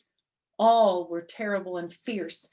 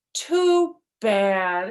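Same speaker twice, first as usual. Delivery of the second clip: mock sigh; 9 dB louder than usual. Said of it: "Herschel sighed".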